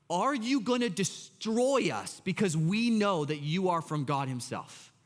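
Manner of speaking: declaring. Acted. Impure spirit addressing Jesus, lightly acted declaration. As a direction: declare it deliberately, only mildly dramatized. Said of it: "Impure spirit starts declaring".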